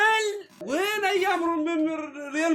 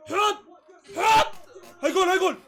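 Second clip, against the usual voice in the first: higher, louder rising yells as the ball goes in; excited goal call; 4 semitones higher, 4 dB louder than usual. Real, not acted. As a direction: urge the shot in, then call the goal. Watching a chance on goal.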